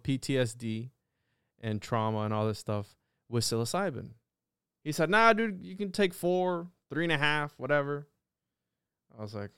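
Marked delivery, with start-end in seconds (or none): 5.1-8.1 high, breezy mock-friend voice; imitating a laid-back friend. Friend in Jamaica shrugging off the dose question, breezy high imitation. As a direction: toss off the advice like a carefree buddy. Friend at retreat gives dosing advice.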